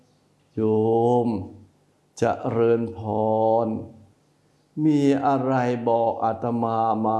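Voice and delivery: slow, gentle and even; gentle monk greeting. Shown as a demonstration. Monk showing how to welcome a layperson, slow and gentle. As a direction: greet the layperson kindly, unhurried. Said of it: "จะอย่างนี้ไหม".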